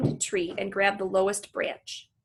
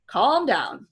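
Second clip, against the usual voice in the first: 1 louder voice; 3 semitones higher, 5 dB louder than usual. Acted. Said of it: "a voice says".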